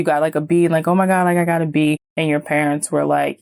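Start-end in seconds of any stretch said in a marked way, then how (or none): 0.9-2.0 put-on mildly thrilled kid voice; acted excitement. Child reporting a B to parents, mild acted excitement. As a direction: play a touch of delight at a grade.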